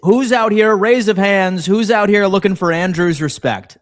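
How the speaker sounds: heated rant. Real, not acted. Ranting back at a chatter.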